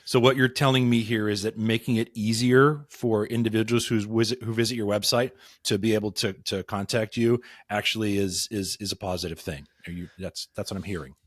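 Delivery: dry mock-serious sarcasm; sarcastic. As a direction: feign surprise at the obvious. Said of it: "my sarcasm is going to well up here".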